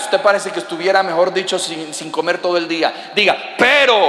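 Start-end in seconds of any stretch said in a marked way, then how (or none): 3.6-4.0 "Pero" louder, with energy; punchy, full-voiced "Pero"; said with gusto. Shown as a demonstration. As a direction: put real force into "Pero". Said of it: "Pero con ganas".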